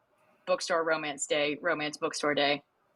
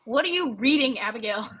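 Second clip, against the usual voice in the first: teacher voice; 5 semitones higher than usual. Retold or imitated. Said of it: "I can't not do it now".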